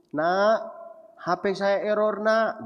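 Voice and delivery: a hint of a father hinting for a new phone; imitating father. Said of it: "dia bilang".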